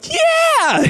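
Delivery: very high, squeaky fake yeah; mock someone who clearly isn't ready; unconvincing yes. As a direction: falsetto yeah of forced enthusiasm. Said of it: "you hear it in their voice that they're not ready".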